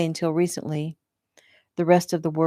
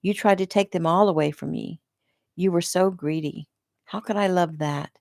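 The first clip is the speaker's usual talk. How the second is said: disgusted. Acted. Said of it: "disgust dripping from her voice".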